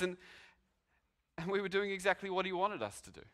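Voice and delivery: lightly voiced officer, shaken but insistent; an officer reporting in with growing wonder; police officer to Sarge. Officer tells Sarge what happened.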